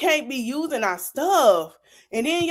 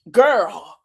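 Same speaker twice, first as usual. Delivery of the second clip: louder mock side-eye; 6 dB louder than usual. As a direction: land it hard, as if eyeing her doubtfully. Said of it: "That's how I look at her now".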